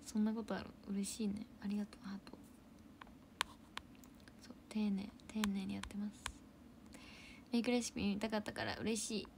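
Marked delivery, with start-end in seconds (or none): 1.6-6.2 quiet whispered reply; soft whisper. Real, not acted. Streamer whispering a modest reply to chat. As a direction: keep it all in a whisper. Softly answering viewer.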